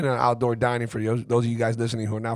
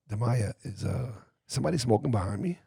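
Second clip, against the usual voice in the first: quietly asking the niece at the table; murmured question to the niece about the smoker behind; hushed question; 6 dB quieter than usual. Retold or imitated. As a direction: keep it down so the smoker won't hear. Asks niece quietly at restaurant.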